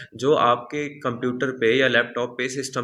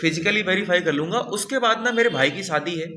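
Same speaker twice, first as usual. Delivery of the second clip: brushing off auditor; 5 semitones higher than usual. Retold or imitated. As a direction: wave away the worry like a slick auditor. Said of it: "वो बोलेगा".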